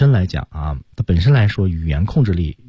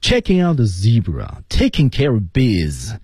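"zebra" and "biz" drawn out as the key words; key-word stress; slower than usual. Shown as a demonstration. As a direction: model the sentence slowly, leaning on "taking care" and "biz". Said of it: "这个音调比较高、语速比较慢、声音比较大的单词".

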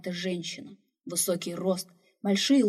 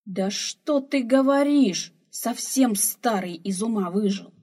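put-on slow, loud, higher old woman scoffing; a loud, mocking rebuke to the old man; scornful scolding; 3 semitones higher, 6 dB louder, slower than usual. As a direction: cut him down with scorn. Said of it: "вмешалась старуха".

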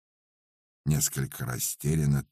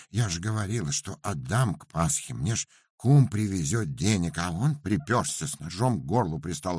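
rapid guilty pleading; 5 semitones higher than usual. Acted. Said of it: "заговорила быстро-быстро, но уже с повинной интонацией".

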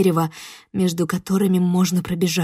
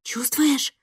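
eerie creature voice; 5 semitones higher, 5 dB quieter than usual. Acted. Эпизод жуткого шёпота духа.

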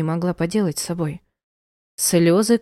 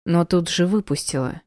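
usual speaking voice

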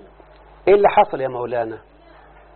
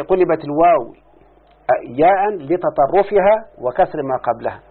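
slow dictation; slower than usual. Shown as a demonstration. Teacher dictating rule slowly.

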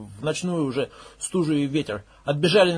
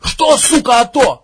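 much higher, loud shout; furious shout, louder; 10 semitones higher, 12 dB louder, slower than usual. Acted. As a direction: spit it out as a scream. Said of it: "выкрикнул Макс".

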